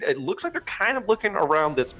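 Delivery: talking through hiccups; hiccuping mid-sentence. Real, not acted. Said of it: "Excuse me, I got the hiccups".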